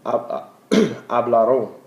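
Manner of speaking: hablaron drawn out slowly, stress on ra; slow teacher model of hablaron; slow demo. Shown as a demonstration. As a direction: say hablaron syllable by syllable. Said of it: "and the ellos form".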